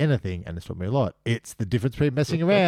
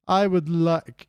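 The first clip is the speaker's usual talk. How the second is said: lightly imitated Scottish lilt, raised in pitch; a mild go at a singing Scotsman; hint of Scottish sing-song, pitched up; 6 semitones higher, much slower than usual. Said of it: "in a Scottish sing-song voice".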